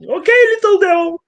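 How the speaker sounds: hammed-up angry god; angry Apollo. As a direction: warn him, rising in anger. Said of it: "Apollo is getting very, very angry".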